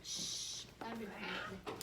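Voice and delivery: hushed whisper; soft hushed aside. Real, not acted. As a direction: whisper it like a secret. Kid hushing.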